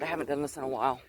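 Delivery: winded, catching breath. Real, not acted. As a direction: talk a little out of breath. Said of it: "I know I'm kinda winded".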